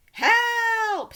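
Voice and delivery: high shrieking cry for help; scream. A narrator's reading. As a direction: scream it at the top of your lungs. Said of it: "screamed the twins".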